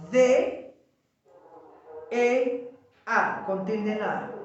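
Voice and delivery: "D E A" letter by letter with pauses; spelling out. Shown as a demonstration. Teacher dictates the next word to the class, spelling out. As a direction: dictate "D E A", each letter apart, then the accent mark. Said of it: "Y la siguiente palabra es".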